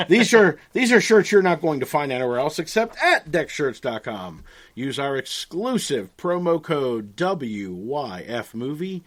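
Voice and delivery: announcer voice. Acted. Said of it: "in his best announcer voice".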